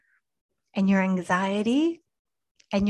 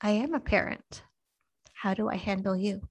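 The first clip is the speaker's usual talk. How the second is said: gently. Retold or imitated. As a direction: answer tenderly, like a patient father. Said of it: "he so gently said to me".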